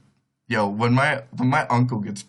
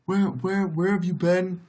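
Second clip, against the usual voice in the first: mock outrage in a higher voice; furious uncle; 7 semitones higher than usual. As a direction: imitate an uncle demanding answers, pitched up. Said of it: "he's just furious".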